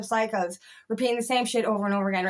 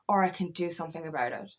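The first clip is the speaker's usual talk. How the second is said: whisper; 6 semitones lower, 6 dB quieter than usual. Retold or imitated. To himself at his lowest moment, in a whisper. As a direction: drop to a hushed whisper on the resolve. Resolving to change, voice dropping.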